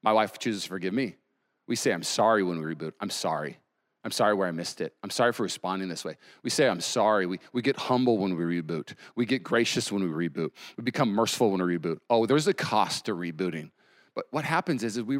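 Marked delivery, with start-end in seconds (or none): 1.9-12.0 low-pitched, subdued sincerity; mild contrite tone; humble apology. Acted.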